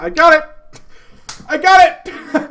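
high, loud triumphant shouts; imitating an overjoyed gamer; excited yelling. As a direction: yell it like you just won. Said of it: "Big Patty's like".

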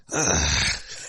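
low imitated groan; disgusted groan. Singer imitating bandmates hearing a bad take, dismayed groan. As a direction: let out a heavy, dismayed sigh.

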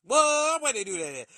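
loud, incredulous "where they do that at?"; disbelieving shout. Real, not acted. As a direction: call out the absurdity loudly. Shouting again.

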